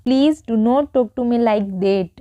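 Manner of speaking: very slow, each word spelled out; slow teaching read. Shown as a demonstration. Teacher reads slowly for students to repeat. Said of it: "तो उसके लिए हम क्या बोलेंगे".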